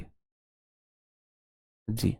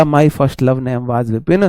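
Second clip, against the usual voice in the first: slow reading out; 4 semitones lower, much slower than usual. Retold or imitated. Teacher quotes student comment.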